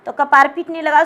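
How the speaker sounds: usual speaking voice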